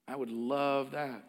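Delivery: soft slow repeat of "I would love that"; a quiet heartfelt echo of "I would love that". Real, not acted. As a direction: say "love" softly, dwelling on it. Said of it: "If I said to you".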